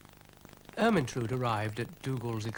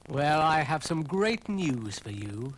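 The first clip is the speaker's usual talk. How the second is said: eager; 4 semitones higher, 5 dB louder, slower than usual. Acted.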